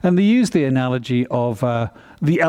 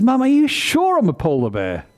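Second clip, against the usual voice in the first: high, doubtful little cub; worried cub pleading for reassurance; baby bear voice; 9 semitones higher than usual. Acted. Cub asks its mother again, high and doubtful.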